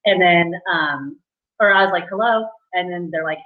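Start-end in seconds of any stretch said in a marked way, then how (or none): 2.1-2.5 retold formal hello; super formal. Job seeker picking up the phone at work, formal. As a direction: answer formally, a touch higher. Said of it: "I was just super formal".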